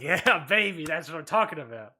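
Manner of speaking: hyped boss cheer; excited Vince. Retold or imitated. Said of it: "Vince is probably at home being like".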